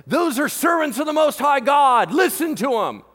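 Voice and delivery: high, loud shrill calling out; mock possessed girl yelling. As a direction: yell it after them on the street. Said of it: "Her phrases are stuff like this".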